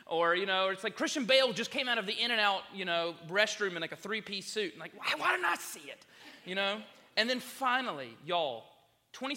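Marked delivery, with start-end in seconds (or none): 0.9-4.7 high, loud mock-excited report, easing off; excited students. Students telling of Christian Bale sighting, mock-excited. 4.9-6.1 high, loud comic wail; mock anguish. Preacher lamenting the celebrity he missed, mock anguish. Retold dismay at missing a celebrity.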